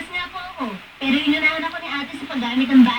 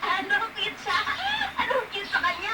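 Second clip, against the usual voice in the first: laughing; 6 semitones higher, 9 dB quieter than usual. Real, not acted. Laughing at friend's crush.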